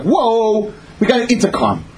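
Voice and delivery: imitating wide-eyed wonder; mock awe. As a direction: marvel like an impressed schoolkid. Schoolchildren marveling at new intercom.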